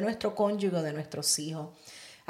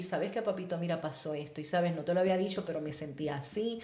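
softer, slightly lowered loving tone; gentle confiding; 3 semitones lower, 5 dB quieter than usual. Acted. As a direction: gently open up to your partner at the table. Voices a calm talk at table. (tono suave y cariñoso, en confianza)

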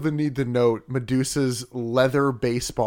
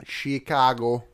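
Chicago accent; 3 semitones lower, slower than usual. Shown as a demonstration. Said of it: "the Chicago accent".

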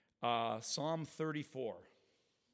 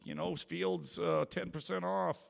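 excited; 6 semitones higher than usual. Retold or imitated. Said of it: "I'm like".

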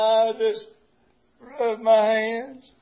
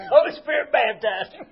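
laughing; 3 semitones higher than usual. Real, not acted. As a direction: chuckle right through the words. Laughing through the report.

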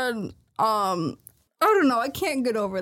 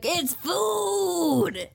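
mock excited cry; 8 semitones higher than usual. Retelling characters spotting the boat.

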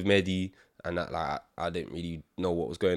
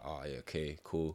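mock dry reply; 4 semitones lower, 9 dB quieter than usual. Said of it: "I'm just sitting there like".

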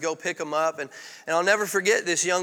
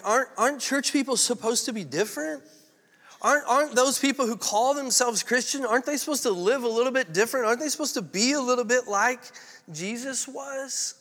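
higher-pitched run of rhetorical questions; imagined appeal to Jesus; 5 semitones higher than usual. Acted. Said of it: "I can just imagine him like".

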